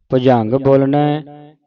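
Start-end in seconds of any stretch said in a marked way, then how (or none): 0.1-0.5 careful j sound in the middle of ਭੁਜੰਗ; ਭੁਜੰਗ with a jajja. Shown as a demonstration. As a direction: say ਭੁਜੰਗ with a plain j, not jh. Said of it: "ਝੱਜਾ ਨਹੀਂ ਬੋਲ ਦੇਣਾ, ਜੱਜਾ ਲੱਗਾ". (ਭੁਜੰਗ ਵਿੱਚ ਜੱਜੇ ਦੀ ਆਵਾਜ਼, ਝੱਜਾ ਨਹੀਂ)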